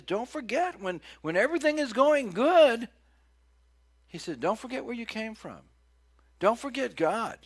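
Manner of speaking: loud, high voice of God; God warning the children of Israel, booming. Acted. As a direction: warn like a stern father.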